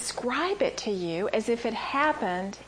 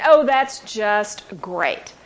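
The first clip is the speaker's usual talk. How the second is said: loud, dripping sarcasm; sarcastic and mad; 5 dB louder than usual. Retold or imitated. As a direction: spit it out with angry sarcasm. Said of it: "I was so mad".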